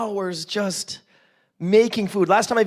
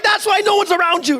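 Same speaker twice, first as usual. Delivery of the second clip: high-pitched teasing through laughter; joking outburst, high and laughing; laughing mock jab; 11 semitones higher, 4 dB louder than usual. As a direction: tease them, voice pitched way up and laughing. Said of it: "I'm like".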